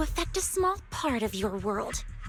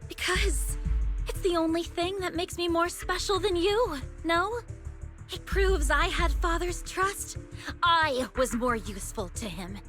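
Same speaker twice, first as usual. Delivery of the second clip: defensive outburst; 7 semitones higher than usual. Acted.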